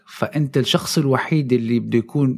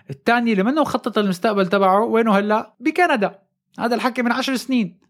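excited reveal; 8 semitones higher than usual. Real, not acted. Punchline reveal of the story.

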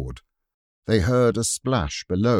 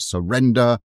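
loud, higher shouted call; distant battle shout; 5 semitones higher, 6 dB louder than usual. Acted. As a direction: call out like a besieging soldier. Shouts of the besiegers.

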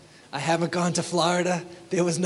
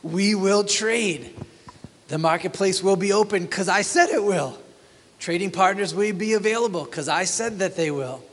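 higher mock swagger; arrogant boast; 3 semitones higher than usual. Pastor mocks a traveling merchant, smug. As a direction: boast smugly, lightly hammed. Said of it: "Do you feel it?".

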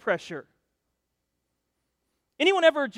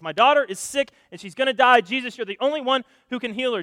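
urgent plea; 3 semitones higher, 5 dB louder than usual. Acted. Jairus begs Jesus for his daughter.

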